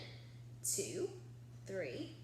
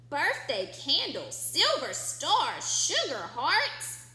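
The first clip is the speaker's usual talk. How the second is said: grocer reading the list; 2 semitones higher, 6 dB louder than usual. Acted. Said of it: "said the grocer".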